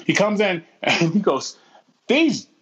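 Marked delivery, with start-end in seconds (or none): 2.1-2.5 slow, higher-pitched mock indignation; angry old man. Old man complaining at the grocery register, mock angry. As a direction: play a cranky old customer, each word weighted. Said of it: "came in initially with an attitude".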